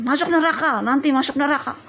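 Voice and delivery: acted dire warning; mock scaring. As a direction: frighten a little one, half in play. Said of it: "atau ditakutin".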